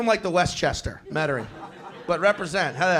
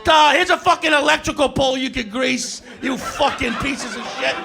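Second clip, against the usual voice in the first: a hammed-up rant with raised voice; mock angry yell; 3 dB louder than usual. Comedian shouting back at Philly hecklers in mock fury.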